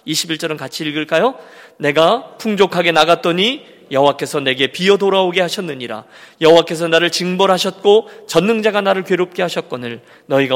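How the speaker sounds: measured pulpit scripture reading. Acted. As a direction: proclaim the verses solemnly. Reads scripture passage aloud.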